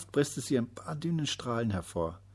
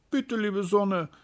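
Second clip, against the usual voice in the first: high, slow, begging call; pleading call; 11 semitones higher, 5 dB louder, slower than usual. A narrator's reading. Little day calling up to the sun, pleading and slow. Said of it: "rief er".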